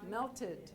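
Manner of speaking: "Melted" with both syllables sounded; added syllable. Shown as a demonstration. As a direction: model "Melted" as melt-id. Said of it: "so we add a syllable".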